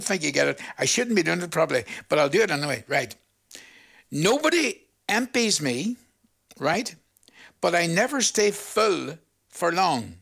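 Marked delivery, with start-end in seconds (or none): 4.1-6.0 slow, lifted riddle delivery; riddle-posing. Shown as a demonstration. Host posing a teaser to listeners, slow and deliberate. 7.6-10.2 slow, measured riddle clue; riddle-posing. Shown as a demonstration. Host posing a teaser to listeners, slow and deliberate.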